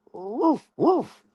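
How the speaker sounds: high, yippy mock puppy woofs; puppy bark. Streamer calling his rival a puppy, barking high. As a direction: yip like a small puppy.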